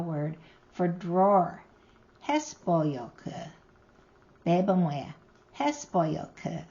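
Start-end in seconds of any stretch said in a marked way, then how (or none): 2.3-3.5 "Hespoyoku" said slowly, stress on HES; first-syllable stress. Shown as a demonstration. Teacher modelling the borrowed word for drawer, slow first-syllable stress. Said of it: "the stress is on the first syllable". 5.6-6.6 "Hespoyoku" slowly, stress on HES; first-syllable stress. Shown as a demonstration. Teacher repeating the borrowed word for drawer, slow first-syllable stress. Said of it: "the stress is on the first syllable".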